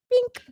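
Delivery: high, soft, tiny "bink"; little "bink" noise. Real, not acted. Making silly noises while mixing drinks, high soft bink. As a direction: squeak out a quick little bink. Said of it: "Bink, she says".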